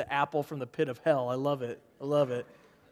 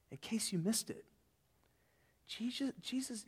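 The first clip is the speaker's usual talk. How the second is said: softer unvoiced whisper; 3 semitones higher, 14 dB quieter than usual. Real, not acted. Preacher whispering aside to the congregation, hushed. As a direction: lean in and whisper it. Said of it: "whispered aside to congregation".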